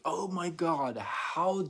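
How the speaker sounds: high, loud, slow mock outrage; outraged offended person. Mocking an offended stranger, hammed-up high outrage. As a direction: play the scandalized victim of a holiday greeting. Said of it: "they take it so personal".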